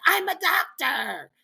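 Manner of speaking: slow, high mock shout; mock announcement. Stranger steps in with a claim.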